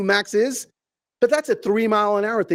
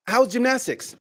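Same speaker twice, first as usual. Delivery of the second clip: higher-pitched hopeful retold question; cheery dad question; 6 semitones higher than usual. Dad asking his tween about her day, cheery and higher. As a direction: try chirpily to get the kid talking. Dad tries again with daughter.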